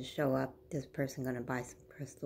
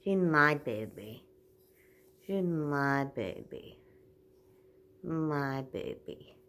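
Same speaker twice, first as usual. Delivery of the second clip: retold protest; 7 dB louder, slower than usual. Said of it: "I was like".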